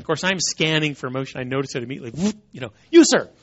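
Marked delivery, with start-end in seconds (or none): 2.9-3.3 raised, higher call picking someone out. Retold or imitated. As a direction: call him out from the crowd. Calling out to the speaker.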